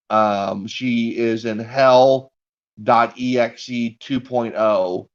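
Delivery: flat robotic hacker voice. Retold or imitated. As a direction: speak it like a robot. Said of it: "she says in, like, a robot voice".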